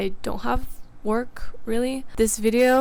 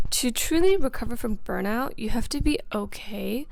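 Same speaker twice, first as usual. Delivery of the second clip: whispering. Acted. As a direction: breathe the words out gently. Whispered voiceover advice.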